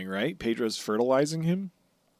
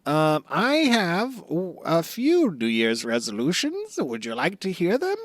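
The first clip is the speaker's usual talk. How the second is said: Buggy. Acted. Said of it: "Buggy, do you have any New Year's resolution?".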